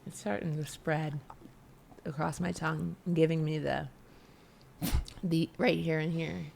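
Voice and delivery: talking with sour candy in mouth; eating sour candy. Real, not acted. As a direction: speak around a sour candy on the tongue. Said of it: "Okay, it's in".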